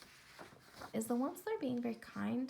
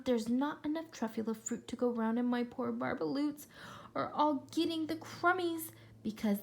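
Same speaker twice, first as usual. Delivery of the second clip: lightly voiced grumpy Lorax. Reading to kids, the Lorax scolds the Onceler in mild voice. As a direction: scold him for the chopping.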